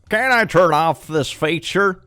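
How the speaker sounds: whiny player. Acted. Reading a player's complaint.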